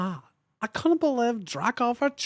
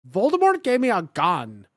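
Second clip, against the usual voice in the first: ordinary delivery, nothing marked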